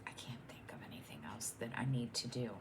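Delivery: fast whisper to herself. Real, not acted. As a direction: whisper quickly while thinking. Thinking aloud to herself.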